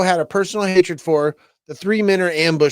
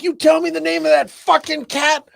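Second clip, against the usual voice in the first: hammed-up movie threat with a raised voice; threatening gangster; 8 semitones higher than usual. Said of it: "He's like".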